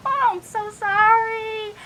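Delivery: laughing apology. Acted. Flustered librarian caught laughing.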